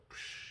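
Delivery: small soft "psh" smash noise; imitated crash. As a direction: mimic a crash, kept low.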